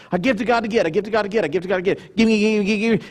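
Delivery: rapid-fire repetitive chant; hammed-up grabby refrain; mock selfish giver. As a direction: rattle it off greedily on one note. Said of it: "It's a very selfish concept".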